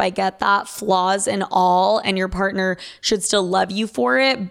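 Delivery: ordinary delivery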